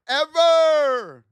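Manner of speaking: "ever" yelled high and loud, dragged out; shouted ever. Real, not acted. Trader swearing off pre-market, shouting the final "ever". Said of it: "I would never have a trade".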